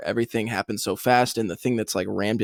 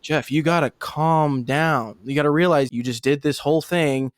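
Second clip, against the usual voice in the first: higher, lightly mocking friend telling him to relax; mock calm-down voice; 5 semitones higher than usual. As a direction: play it like patient older players soothing a hothead. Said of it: "And people are like".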